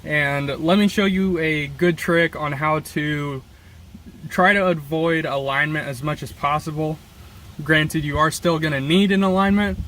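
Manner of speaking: gusty wind roaring over the voice; wind on mic. Real, not acted. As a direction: wind noise blasting the mic. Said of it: "Sorry about the wind".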